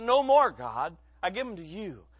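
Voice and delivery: firm vow. Retold or imitated. Mom quitting cigarettes.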